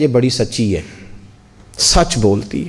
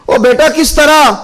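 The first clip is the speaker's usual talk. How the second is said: surprised father; 10 semitones higher than usual. Retold or imitated. Father surprised at his son.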